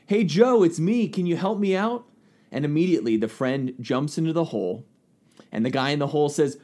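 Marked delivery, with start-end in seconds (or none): 0.1-2.0 high, louder calling voice; acted shout up. Man in a hole to his friend Joe, shouting up. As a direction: hail a friend from down below. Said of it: "he shouts up".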